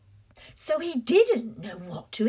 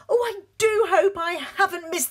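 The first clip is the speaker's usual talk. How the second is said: flustered latecomer; 5 semitones higher, 3 dB louder, much faster than usual. Acted. Latecomer arrives at door.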